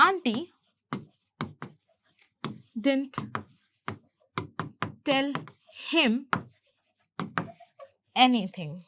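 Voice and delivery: slow dictation, very long pauses between words. Shown as a demonstration. Teacher letting learners say it along, word by word. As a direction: isolate each word for learners to repeat. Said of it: "आप साथ साथ में कर रहे होंगे".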